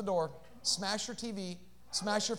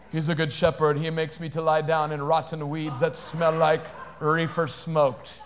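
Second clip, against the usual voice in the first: a lower, put-on voice for a confused churchgoer; mock misguided believer; 8 semitones lower, 4 dB quieter than usual. Preacher mocking a churchgoer's twisted psalm, in a low put-on voice. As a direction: play a churchgoer who has the psalm all wrong.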